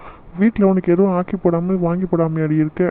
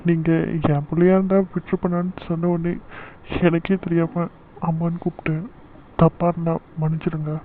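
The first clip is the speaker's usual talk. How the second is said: tearful; 4 dB quieter than usual. Acted. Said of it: "அதுக்கு எதுக்கு அழற".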